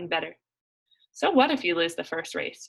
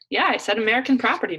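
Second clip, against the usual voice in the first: Macy's voice; 4 semitones higher, 6 dB louder, faster than usual. Acted. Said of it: "put aside her Macy's voice".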